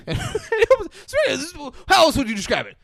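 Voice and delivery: high, fast, loud excited outburst; excited shout. Real, not acted. Telling his co-host about the hidden door, shouting excitedly. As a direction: blurt it out, too thrilled to sit still.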